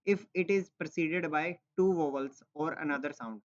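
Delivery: reading a textbook line slowly to students; slow reading aloud. Shown as a demonstration. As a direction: read the rule out slowly, word by word. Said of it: "ठीक है".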